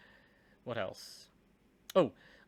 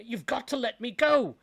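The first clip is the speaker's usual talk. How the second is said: shouted go hit hardest, falling; stress on go; 11 semitones higher, 9 dB louder than usual. A narrator's reading. Suspect begging police, punching the word go. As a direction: lean hard into the final go. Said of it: "You notice the emphasis I put on that word, go".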